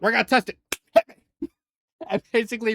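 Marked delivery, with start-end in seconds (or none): 0.0-1.5 eager. Retold or imitated. Melia eager to test it.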